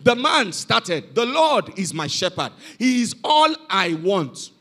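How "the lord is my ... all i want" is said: put-on elderly man's recitation. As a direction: let each phrase of the psalm settle. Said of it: "they called an elderly man".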